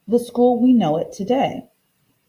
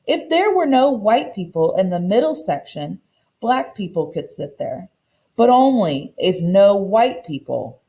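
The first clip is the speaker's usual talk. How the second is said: steady, clear storybook reading for a class; reading to children. Acted. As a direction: read the book aloud to the kids at an easy pace. Teacher reads picture book aloud.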